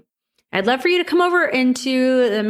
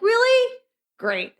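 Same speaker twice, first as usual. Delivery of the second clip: sarcastic disappointment; 14 semitones higher, slower than usual. Retold or imitated. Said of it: "And you're like".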